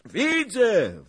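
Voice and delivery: high, loud excited cry; calling out. A narrator's reading. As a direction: shout back eagerly. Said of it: "wołał pan Zagloba".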